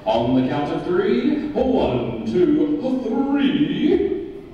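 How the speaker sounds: hyped countdown, pitch leaping up; announcer voice. Shown as a demonstration. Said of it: "Use your announcer voice, just like I'm using right now".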